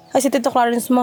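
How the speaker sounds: ordinary talk, nothing marked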